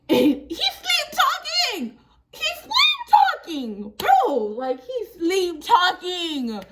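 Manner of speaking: high, loud laughter through the words; laughing hard. Real, not acted. Telling viewers her brother was sleep talking, laughing hard. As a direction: crack up as you say it.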